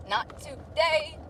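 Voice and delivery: lazy drawn-out no; slow drawn-out refusal. Pretend.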